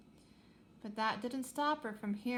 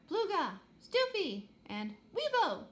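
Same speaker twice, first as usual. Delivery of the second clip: high, loud startled alien cries; alien shouts; 8 semitones higher, 5 dB louder, slower than usual. Acted. Startled crew shouting in their own tongue, high yelps. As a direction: yelp nonsense names in alarm. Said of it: "They shouted".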